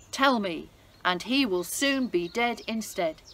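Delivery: loud, stern royal threat; angry king. Acted. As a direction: make it a furious promise.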